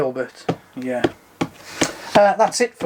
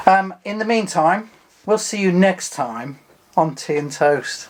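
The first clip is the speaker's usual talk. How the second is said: suave presenter sign-off; smooth and suave; 3 semitones higher than usual. Acted. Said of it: "gone all smooth and suave".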